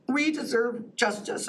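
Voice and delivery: slow, emotional plea for justice; holding back tears as she asks for justice; getting emotional. Real, not acted. Victim's advocate pleading with commissioners, voice catching emotionally. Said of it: "I'm sorry I'm getting emotional here".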